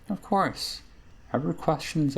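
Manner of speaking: a hint of a wistful old witch; crone's voice, barely shifted; lightly voiced witch Ravel. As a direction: muse like a forgetful crone.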